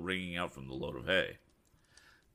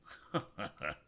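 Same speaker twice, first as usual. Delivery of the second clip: farmer's laugh; 3 dB quieter than usual. A narrator's reading. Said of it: "laughed the farmer".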